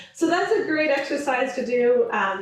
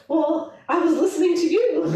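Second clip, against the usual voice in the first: laughing through quote; 5 semitones higher than usual. Retold or imitated. Husband's baffled reply, retold.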